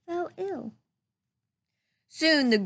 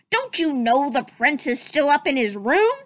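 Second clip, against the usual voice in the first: angry captain; 2 semitones higher, 4 dB louder than usual. Acted. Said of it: "growled Captain Pete".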